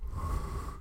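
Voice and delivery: soft, airy blow; seductive blown breath. Retold or imitated. Retelling blowing on the beer pong ball, seductive puff. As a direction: blow gently, mock-seductively.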